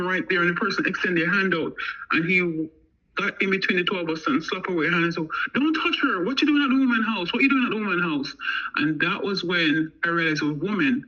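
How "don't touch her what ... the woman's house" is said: higher-pitched retold protest; mock a man warning someone off, pitched up; acted confrontation. Man steps between them to protect her, acted confrontation.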